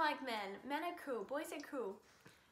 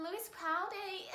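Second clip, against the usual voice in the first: Scottish impression; 6 semitones higher than usual.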